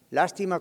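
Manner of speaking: LÁSTIMA stressed on its first syllable, LÁS. Shown as a demonstration. Pastor explains the accented word to his class, stress on LÁS in Lástima. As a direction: hit the opening LÁS of Lástima. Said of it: "va con acento en la primera A".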